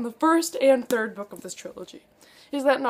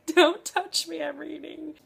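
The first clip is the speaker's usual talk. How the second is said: teary snap; 5 semitones higher than usual. Retold or imitated. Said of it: "And I'm just like".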